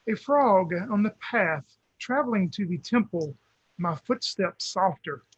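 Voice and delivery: slow, gentle recitation; hushed sparse haiku. Acted. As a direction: recite it slowly like a monk. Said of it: "I wanna recite a haiku".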